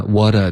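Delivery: WHAT A ending in a wide "dah"; mispronunciation demo. Shown as a demonstration. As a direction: show WHAT A with the last vowel too open. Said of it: "嘴巴就太大了". (示范错读：what a 发成"哇打")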